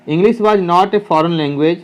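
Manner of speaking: each word spaced out for copying; teacher reading to students, slowly and clearly; slow dictation. Shown as a demonstration. Teacher dictating to students writing it down, slow and clear.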